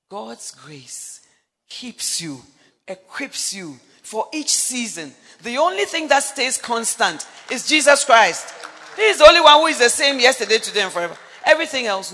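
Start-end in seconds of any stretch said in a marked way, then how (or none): 5.4-12.1 loud, rising proclamation; preaching at full force. Real, not acted. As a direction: proclaim it to the whole church. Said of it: "preaching climax".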